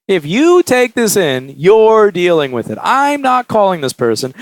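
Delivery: slow, emphatic mock warning; warning look, voiced. Sales guy warning the repairer with a look, slow and emphatic. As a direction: stress YOU and draw out the threat. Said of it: "It's that look of".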